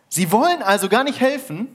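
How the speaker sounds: hoch und laut gerufen; runtergerufen. Acted. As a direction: ruf ungläubig nach unten. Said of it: "rief der Mann runter". (nach unten gerufen, hoch und laut)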